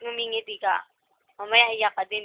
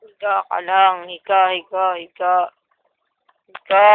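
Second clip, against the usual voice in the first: firm command; 3 semitones lower, 7 dB louder than usual. Real, not acted. Firm loud command to lie down.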